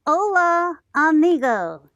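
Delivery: says Hola, amigo in a Spanish accent; showing off Spanish for the story time kids; Spanish pronunciation. Shown as a demonstration. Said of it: "Go ahead".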